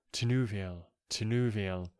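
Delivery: mild poetic call of a name. Acted. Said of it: "he called her by her elvish name".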